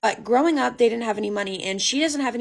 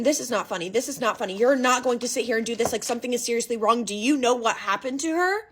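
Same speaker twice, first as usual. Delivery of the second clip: normal talking voice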